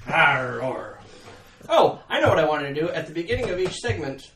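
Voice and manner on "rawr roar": roar. Pretend. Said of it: "we come roaring back".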